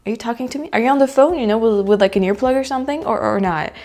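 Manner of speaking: high, loud confused questioning; baffled reaction. Retold or imitated. She wonders if the stranger is on the phone, baffled. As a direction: act puzzled at the greeting. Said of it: "and I'm like".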